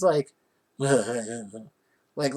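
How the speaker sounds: mimicked low laugh; imitated laughter. Father laughing at the rabbit, mock laughter. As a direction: put on the man's laugh. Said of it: "he's kinda, like, laughing".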